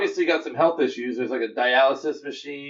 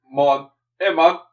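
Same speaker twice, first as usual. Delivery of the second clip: mock Jamaican accent, louder; 5 dB louder, slower than usual. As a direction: punch it out in a put-on Jamaican accent. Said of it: "We have a Jamaican".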